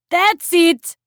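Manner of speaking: high croaky cheer; croaked. A narrator's reading. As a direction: croak it out loud. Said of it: "Magda croaked".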